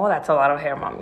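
hammed-up flattered reply; mock impressed. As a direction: act pleased as if it were a compliment. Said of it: "Entonces yo lo tomé como".

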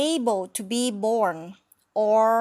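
slow phrase model. Shown as a demonstration. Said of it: "teacher models phrase slowly".

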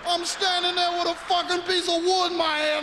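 high mobster voice straining through laughter; hysterical mobster laughter. Acted. Mobster asking Johnny Salami for help, high laughing shout. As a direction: shout it while helpless with laughter. Mobster cracking up at own story.

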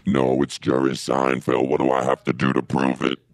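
Jerry Seinfeld voice. Acted. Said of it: "not talking that weird voice".

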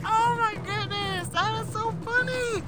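breathless with laughter; laughing. Real, not acted. Still laughing at the voice.

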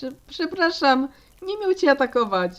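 flustered, meek excuse; anxious apology. Acted. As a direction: apologise nervously after a mishap. Apology after the attack.

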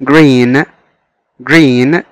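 green said clearly with a rising tune; model pronunciation. Shown as a demonstration. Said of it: "كلمة green".

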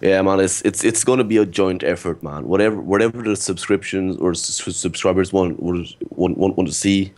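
nervous stammer, repeating words; stuttering. Real, not acted. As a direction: stumble over the words nervously. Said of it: "I'm nervous, I'm stuttering".

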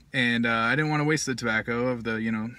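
words around pipe stem; talking with pipe in mouth. Real, not acted. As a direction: lips clenched on pipe. Seen 3: Pipe stem held between lips throughout while talking, hand on bowl.

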